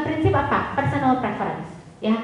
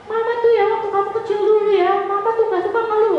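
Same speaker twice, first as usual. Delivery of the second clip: higher, louder lecturing mom; preachy mom; 9 semitones higher, 3 dB louder than usual. Shown as a demonstration. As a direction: lecture the kid about the old days.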